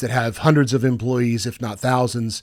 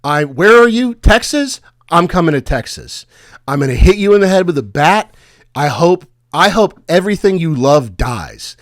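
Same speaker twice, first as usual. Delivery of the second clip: raised, louder mock fury; retold angry threats; 4 semitones higher, 3 dB louder than usual. A cold-called stranger threatens the caller, mock rage. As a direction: act out a furious stranger's threats. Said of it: "And then they would go".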